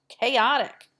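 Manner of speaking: breathy whispered word. Real, not acted. Teacher aside to class, whispered. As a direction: drop to a whisper.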